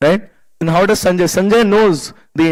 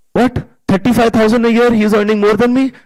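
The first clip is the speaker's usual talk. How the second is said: higher-pitched mock indignation; wounded-ego disbelief; 5 semitones higher than usual. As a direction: imitate a husband stung by envy. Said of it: "man's ego gets hurt".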